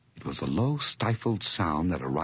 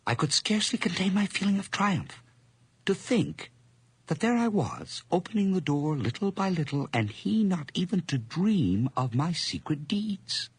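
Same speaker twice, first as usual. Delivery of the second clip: high, fast, giddy with glee; gloating triumph; 11 semitones higher than usual. Acted. Narrator boasting to the reader of his power, high and gleeful. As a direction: rush it up high like a madman bragging.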